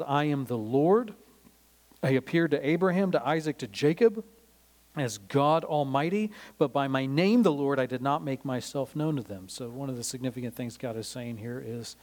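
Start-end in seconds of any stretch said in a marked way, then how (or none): 0.0-9.5 proclaiming as God. Retold or imitated.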